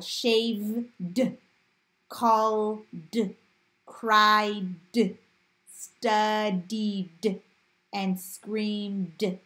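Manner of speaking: "shaved, called, cried, studied, screamed" with a detached voiced "d"; d-sound endings. Shown as a demonstration. Teacher giving voiced-rule examples, endings split off as "d". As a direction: stretch each word, then add a separate "d". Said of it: "making the d sound".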